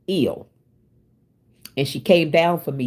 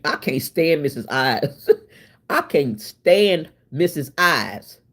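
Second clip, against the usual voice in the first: laughing tease; 3 semitones lower, slower than usual. Real, not acted. Teasing a commenter, laughing.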